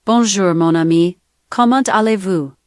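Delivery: sample greeting spoken in French; French accent. Shown as a demonstration. Assistant giving the host accent samples, French accent. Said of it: "French accent".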